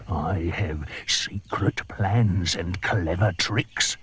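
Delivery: slow, sly boast; sly crocodile. Acted. The crocodile hinting to the monkey, slow and sly.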